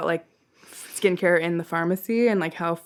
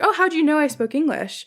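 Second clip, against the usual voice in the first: higher-pitched, friendly mock surprise; 7 semitones higher than usual. Parisian server teasing an American customer, friendly. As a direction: act out a friendly, playful question. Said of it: "Like, really friendly".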